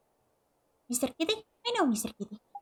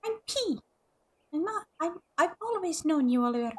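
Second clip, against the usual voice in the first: put-on ghost girl voice; 7 semitones higher than usual. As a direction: play a shy ghost child, pitched up. Reads a small ghost girl's lines.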